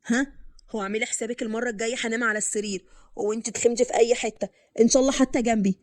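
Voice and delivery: a hint of a fed-up husband warning his wife; husband's voice. Narrator voices husband Qasem.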